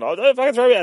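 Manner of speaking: very high, loud whiny plea; hammed-up panicked begging; squeaky pleading. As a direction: beg in a cartoonish high squeal. Thug begs not to be thrown.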